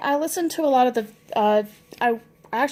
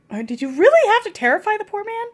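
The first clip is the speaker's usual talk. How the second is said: mother scolding; 10 semitones higher than usual. Retold or imitated. Mother's gentle scolding voiced.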